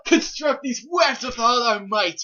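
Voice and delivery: loud heroic proclamation; hammy stage actor. Acted. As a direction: declaim it like a proud warrior. Mock heroic spider declaration.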